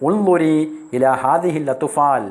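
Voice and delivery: teacher voicing the mother asking Laila to look at the children, emphatic; acted mother's plea. Mother's pleading line in dialogue.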